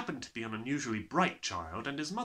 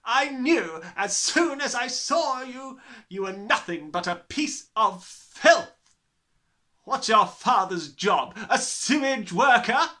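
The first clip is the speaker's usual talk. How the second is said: slow bellowing; 11 semitones higher, 11 dB louder, slower than usual. Acted. Trunchbull raging at boy.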